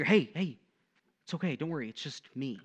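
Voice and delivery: lightly acted parent settling a scared child; calming reassurance. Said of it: "calm their fear".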